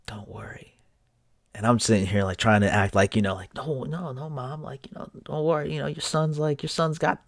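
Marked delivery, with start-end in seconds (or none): 0.1-0.7 whispered reassurance; barely voiced, tender; soft whisper. Mother whispering comfort to her son from the bed. 3.5-7.3 higher, put-on brightness; forced reassurance. Son pretending to his sick mother that he's fine. Son faking confidence to mom.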